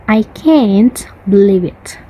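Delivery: American "can't" with a flat a as in "cat"; American accent. Shown as a demonstration. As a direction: say it the American way, short front a in "can't". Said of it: "For the American".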